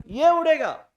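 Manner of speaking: उड़ेगा said loudly, the vowel let fly through the nose; loud उड़ेगा, demonstrating the nasal; nasal sound drawn out. Shown as a demonstration. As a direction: show how the sound of उड़ेगा floats out.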